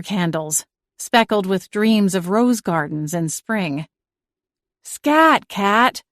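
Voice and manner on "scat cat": sharp scold to chase it off. A narrator's reading. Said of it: "Lily scolded".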